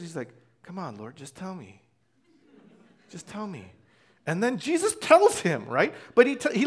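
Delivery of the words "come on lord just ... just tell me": soft, hushed pleading; imitated whisper. John leaning on Jesus to ask him, imitated whisper. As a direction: coax quietly, as if leaning in close. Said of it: "he kinda whispers".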